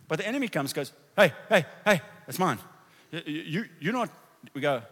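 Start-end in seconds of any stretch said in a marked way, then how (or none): 1.2-4.1 enemy's shout. Retold or imitated.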